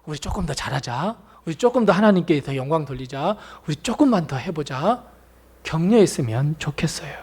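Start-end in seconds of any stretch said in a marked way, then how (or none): 0.0-5.0 soft, coaxing encouragement; gently rally the church; encouraging. Acted. Believers cheering each other on, soft and coaxing. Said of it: "위로할 줄 알고".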